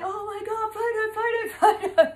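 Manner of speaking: high, loud, thrilled photo demand; excited fans. Retold or imitated. Young men on bus asking the YouTuber for photos, high excited squeal. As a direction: gush like starstruck fans.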